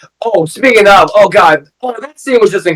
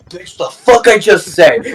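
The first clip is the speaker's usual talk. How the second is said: mock annoyed Mister Terrific; slower than usual. Retells Mister Terrific snapping at Lois.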